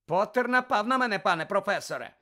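high, loud tattling; urgent complaint. A narrator's reading. Malfoy blaming Potter to Professor Snape, urgent complaint. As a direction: pitch it up and protest to the teacher. Pupil loudly accuses to teacher.

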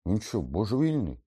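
high, loud, incredulous outburst; astonished. A narrator's reading. Ron questions Dumbledore's sanity, astonished. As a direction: blurt it out in disbelief. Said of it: "здивувався Рон".

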